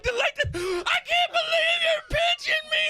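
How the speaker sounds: high, laughing whine; mock kid whine. Son complaining loudly in the store, laughing whine. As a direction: play the wronged kid. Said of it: "I'm like".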